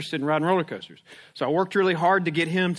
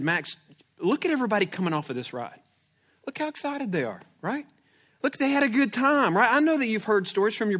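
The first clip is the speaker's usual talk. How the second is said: put-on higher, bright-eyed selling it to a nervous kid; coaxing dad; 6 semitones higher than usual. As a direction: pump the ride up for your son. Father coaxing scared son.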